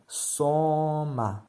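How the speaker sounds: SOMA with a long, held O; stressed O in Soma. Shown as a demonstration. Teacher showing the tonic vowel, drawn-out O in Soma. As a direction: stretch the first syllable of Soma, then a short ma. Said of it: "O é a vogal tônica".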